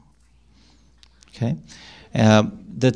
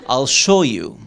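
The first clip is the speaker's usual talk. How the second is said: threatening. Shown as a demonstration. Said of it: "But you took it differently".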